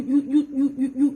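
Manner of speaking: stuttering through a disbelieving laugh; incredulous laugh. Real, not acted. Mocking his claimed apology, laughing in disbelief. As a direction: laugh at how absurd it is.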